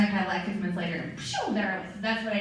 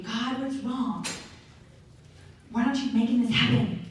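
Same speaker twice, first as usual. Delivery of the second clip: mock complaining. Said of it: "have we thought that God failed us".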